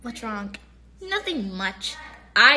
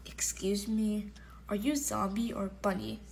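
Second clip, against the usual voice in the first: whisper; 3 semitones lower, 9 dB quieter than usual. Acted. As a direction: whisper the question. Whispered question.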